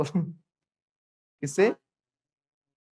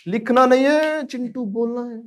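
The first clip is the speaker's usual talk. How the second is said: much higher, much louder call; higher, louder teacher call to Chintu; sharp call; 9 semitones higher, 7 dB louder than usual. Real, not acted. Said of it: "teacher scolding a student".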